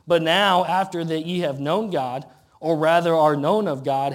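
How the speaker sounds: declaiming scripture; scripture reading. Acted. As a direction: proclaim the old verse from the pulpit. Reads scripture aloud in preaching cadence.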